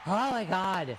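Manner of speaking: exasperated yelled exclamation; yelly, worked-up outcry. Real, not acted. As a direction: let the exasperation burst out. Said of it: "I'm very yelly".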